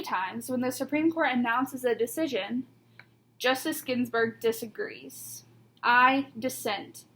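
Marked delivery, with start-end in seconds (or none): 5.8-7.0 slow, deliberate and a bit louder; measured, grave pronouncement; firm dissent. Retold or imitated. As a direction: plant each word like a ruling from the bench. Quoting the justice's famous dissent.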